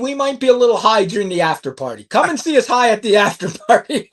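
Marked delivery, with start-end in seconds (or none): 2.0-4.1 laughing through a playful invite. Real, not acted. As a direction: chuckle as you tease the listeners. Joking invite to after party.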